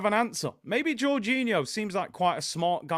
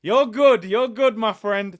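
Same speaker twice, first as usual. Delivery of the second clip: tough guy reassurance, gangster style; lightly done De Niro impression; 2 semitones higher, 8 dB louder, slower than usual. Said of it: "That was my De Niro voice".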